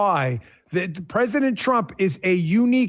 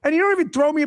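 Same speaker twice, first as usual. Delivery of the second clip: exasperated wife; 8 semitones higher than usual. Retold or imitated. Husband imitates his wife scolding him over the party, high and exasperated. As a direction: whine it like a wife fed up with her husband. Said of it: "and she's like".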